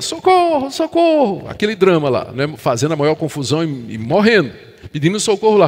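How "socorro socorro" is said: high, far-off yelling cry. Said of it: "E ele começa a gritar".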